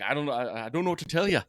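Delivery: lightly imitated Irish lilt; mock Irish accent, laughing midway. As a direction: slip helplessly into a playful Irish accent. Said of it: "couldn't stop my Irish accent".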